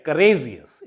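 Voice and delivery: courageous with RA stressed and lengthened; courageous, stretched on its second-last syllable; stress on penultimate syllable. Shown as a demonstration. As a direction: lean on the RA in courageous. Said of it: "stress will be on the penultimate".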